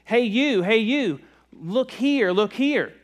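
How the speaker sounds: a high hidden voice calling to get attention; mysterious voice calling. Acted. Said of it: "he hears this voice and says".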